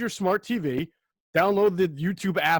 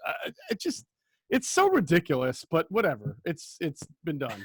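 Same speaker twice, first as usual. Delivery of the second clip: exasperated. Real, not acted. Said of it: "You sound exasperated".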